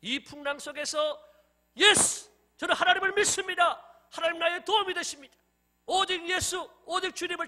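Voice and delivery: high, loud, forceful preaching. Acted. (힘주어 외치는 설교)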